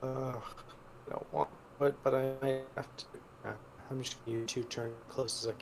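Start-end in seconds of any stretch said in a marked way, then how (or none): 0.0-4.2 robotic, glitchy mic voice; robot voice through a bad connection. Real, not acted. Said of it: "Why do you sound like a robot?".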